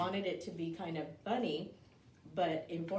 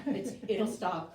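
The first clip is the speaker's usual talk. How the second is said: laughing; 4 semitones higher, 5 dB louder, slower than usual. Real, not acted. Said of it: "this is sour".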